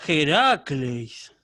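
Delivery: exclamación de asombro. Acted.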